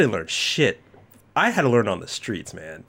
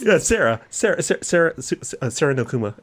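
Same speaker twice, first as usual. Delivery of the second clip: higher, louder host build-up; podcast host hyping co-host; hype intro; 4 semitones higher, 4 dB louder than usual. Pretend. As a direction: announce her like a star.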